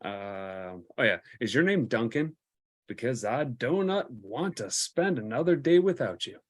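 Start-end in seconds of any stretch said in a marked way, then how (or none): 1.4-6.4 cheesy pickup line. Pretend.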